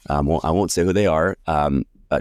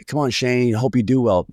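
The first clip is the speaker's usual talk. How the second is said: a touch of forced cheer, pitched higher; fake cheerful support; 6 semitones higher than usual. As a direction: sound supportive on the surface only. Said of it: "on the surface".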